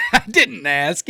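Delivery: high, drawn-out laughing mimicry; mocking echo. Friend mocking the other man's denial, high mocking echo.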